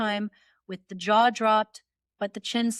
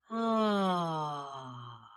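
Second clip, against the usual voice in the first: soft low breathy ah; gentle ah; 5 semitones lower, 6 dB quieter than usual. Shown as a demonstration. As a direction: ease into a gentle ah. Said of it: "make an ah sound like this".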